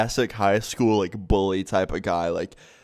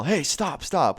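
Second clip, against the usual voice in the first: mock yell; 6 semitones higher, much slower than usual. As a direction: imitate a teacher calling out to break it up. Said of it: "I heard someone yell".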